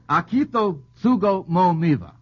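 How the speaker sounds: slow, deliberate syllables in a put-on Japanese accent; mock Japanese accent. Host jokingly reads the prince's name again in a mock Japanese accent. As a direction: sound out "Akito Tsugo Mo Miva" slowly, in a joking Japanese accent. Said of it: "an accent I just picked up".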